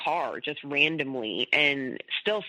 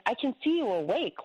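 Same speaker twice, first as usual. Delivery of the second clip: retold irritation, pitched higher; mildly irritated, voice lifted; a little irritated; 6 semitones higher than usual. Wife to husband who is ignoring her, a little irritated. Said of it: "I'm getting a little irritated".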